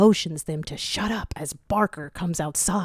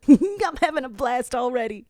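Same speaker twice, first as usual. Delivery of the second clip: high, bright, louder glee; giggly character; 8 semitones higher, 5 dB louder than usual. Acted. Brutta rushing with the squad, high and gleeful. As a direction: bubble over with fun.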